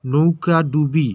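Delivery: নৌকা ডুবি said slowly as two words; slow clear word. Shown as a demonstration. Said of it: "ভেঙে ভেঙে উচ্চারণ করতেছি".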